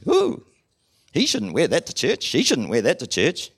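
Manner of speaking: high "Ooh" then tutting judgement; disapproving gossip. Retold or imitated. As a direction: play a prim busybody tutting at clothes. Mock judgmental churchgoer.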